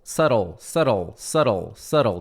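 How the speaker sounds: "Subtle" as SUH-rol, repeated with falling pitch; correct pronunciation, drilled. Shown as a demonstration. Teacher drilling learners, "subtle" as SUH-rol each time. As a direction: drill "subtle" with a silent B, evenly spaced. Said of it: "pronúncia é".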